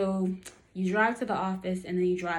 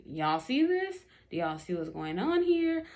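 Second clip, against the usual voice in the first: mock shocked aside to the camera; retold disbelief. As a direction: play it to an unseen audience. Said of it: "looking around like, at the invisible camera".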